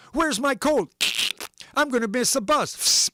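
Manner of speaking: put-on rushed children shouting over breakfast; yelling kids. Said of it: "the kids came running in yelling".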